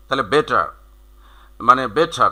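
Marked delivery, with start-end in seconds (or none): 0.2-0.7 British "বেটার" with crisp t and no final r; British pronunciation. Shown as a demonstration. Teacher demonstrating British English, "বেটার" without its r. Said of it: "এটা যদি তুমি ব্রিটিশে উচ্চারণ করো". 1.9-2.3 British "বেটার", aspirated t and no r; British pronunciation. Shown as a demonstration. Teacher explaining the British way, "বেটার" with aspirated t. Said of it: "টিগুলোকে ওরা উচ্চারণ করে ঠ দিয়ে".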